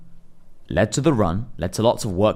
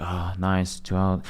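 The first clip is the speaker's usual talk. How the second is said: sarcastic; 4 semitones lower, 5 dB quieter, much slower than usual. Retold or imitated. After scrolling TikTok for hours.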